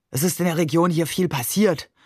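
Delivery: a weary groan. A narrator's reading. Sweating uncle laments the region, groaning. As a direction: sigh it out like a tired man. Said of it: "stöhnte er".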